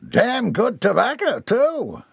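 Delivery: high-pitched hillbilly boast; proud interjection. A narrator's reading. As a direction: cut in brightly with a boast. Seller cuts in, proud of tobacco.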